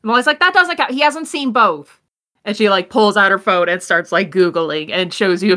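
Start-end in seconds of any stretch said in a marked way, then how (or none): 0.0-2.0 excited cheer. Acted. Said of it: "Ashton's like".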